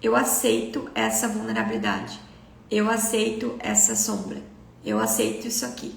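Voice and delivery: low, unhurried sincere acceptance; mean it fully, settling gently into each phrase; truly letting it in. Acted. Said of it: "se você realmente aceitar de verdade".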